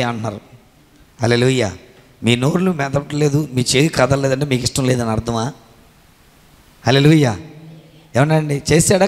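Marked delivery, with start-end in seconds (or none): none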